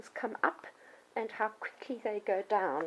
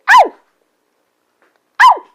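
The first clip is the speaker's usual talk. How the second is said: demo yelp; 25 dB louder than usual. Shown as a demonstration. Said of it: "tell me when I've bitten too hard by yelping".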